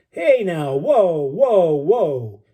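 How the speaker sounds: rough voice, easing off; Benny soothing. Acted. Old Marine settling down his young friend, gruff and soothing.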